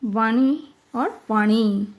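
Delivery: वाणी read slowly, each variant spelled out in sound; spelling variants read out. Shown as a demonstration. Teacher reading the answer choices to children, slow. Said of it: "फिर ख में है वाणी".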